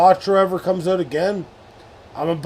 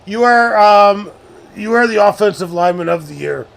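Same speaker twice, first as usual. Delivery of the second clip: hammed-up award praise; 3 semitones higher, 6 dB louder than usual. Mock award speech to teammate.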